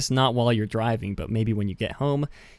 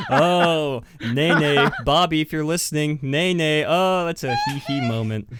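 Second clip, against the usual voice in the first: laughing, louder and higher, giggling through the words; giggly nay nay; 4 semitones higher, 4 dB louder than usual. Real, not acted. Host cracking up at the listener's voicemail, giggling loudly. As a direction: bubble over with laughter at the joke.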